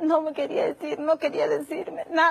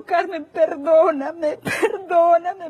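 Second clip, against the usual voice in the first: slow tearful plea; 4 dB louder, much slower than usual. Retold or imitated. Abuser begging forgiveness.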